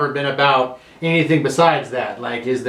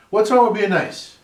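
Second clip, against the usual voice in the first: mock exasperation; 6 semitones higher than usual. Telling off friends, repeated.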